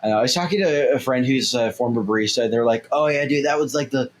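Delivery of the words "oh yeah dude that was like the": lightly voiced chill stoner. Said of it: "I'm doing my stoner voice".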